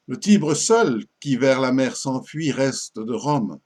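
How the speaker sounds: measured sonnet reading, pauses between phrases; lightly declaimed French verse; poem recitation. Acted. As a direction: recite it line by line, letting each ending fall.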